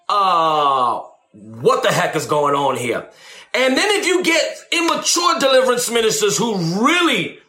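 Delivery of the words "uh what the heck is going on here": much lower, baffled mumble; puzzled inner voice. Retold or imitated. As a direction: sound lost and unimpressed. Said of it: "you're gonna be saying".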